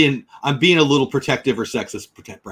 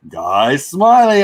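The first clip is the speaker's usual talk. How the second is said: drawn out; 6 dB louder, much slower than usual. Real, not acted. Savoring a name.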